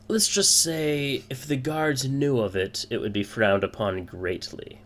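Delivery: brief the recruits in character; a hint of a genial crime boss; guild man with goblet. Game master plays the goblet man.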